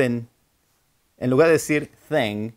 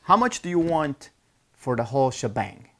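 buyer asking. Retold or imitated.

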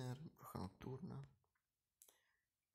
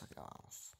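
whisper; 10 dB quieter than usual. Real, not acted. Repeats, fading to whisper.

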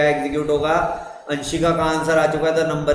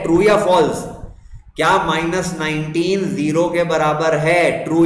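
raised, emphatic classroom voice; forceful, angry-sounding teaching. Real, not acted. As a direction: speak up firmly without real anger. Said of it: "आपकी आवाज में इतना गुस्सा".

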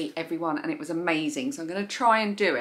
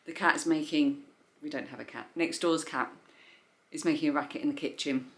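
talking with the hiccups; 5 dB quieter than usual. Real, not acted. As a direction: speak between hiccups.

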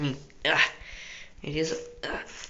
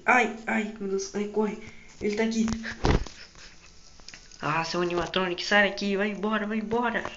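panicky yelling; 4 semitones higher, 3 dB louder than usual. Real, not acted. Animatronic won't leave.

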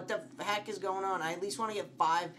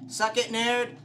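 loud, higher-pitched jeer; taunting shout; 7 semitones higher, 7 dB louder than usual. Real, not acted. Player taunts game monster, shouting. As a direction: throw it at him as a taunt.

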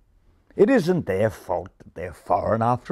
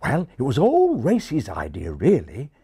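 put-on refined English accent; 4 semitones higher than usual. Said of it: "explained the English pigeon".

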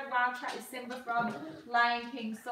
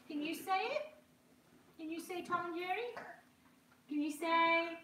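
high, gently coaxing; 6 semitones higher than usual. Real, not acted. Asking the baby to repeat words, high coaxing voice.

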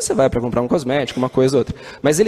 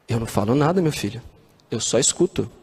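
low, soft, tender hint of an old nun; gentle nun's reply; 4 semitones lower, 3 dB quieter than usual. Madre Teresa tells the reporter she only listens, softly. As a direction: say it calmly, almost to a child.

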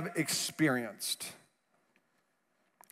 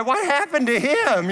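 lightly voiced curious kid, higher; child's voice; 6 semitones higher than usual. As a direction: ask it like a small kid passing by. Little kids skiing past.

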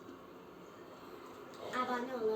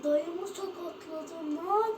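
shocked outburst; 5 semitones higher, 4 dB louder, much slower than usual. Real, not acted. Fouls uncle's player in game.

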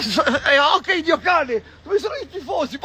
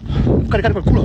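louder and faster, pumped up; 5 semitones lower, 4 dB louder, faster than usual. Acted. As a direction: fire yourself up, quicker.

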